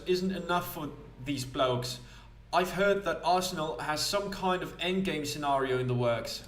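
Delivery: lively confiding character, lightly put on; lightly voiced gossiping informant. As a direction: share a rumour in a lightly acted voice. Plays a gossiping game character.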